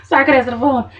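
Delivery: high, loud panicked mother; mama frantic over her daughter. Retold or imitated. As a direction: gush out in alarm. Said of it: "Mama's like".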